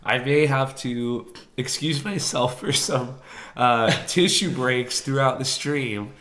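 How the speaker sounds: sick, hoarse and congested; rough voice from sinus trouble. Real, not acted. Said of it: "sound like a smoker".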